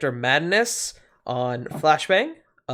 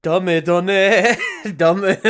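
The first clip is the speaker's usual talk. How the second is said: weeb voice; 4 semitones higher than usual. Pretend. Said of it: "the weeb voice".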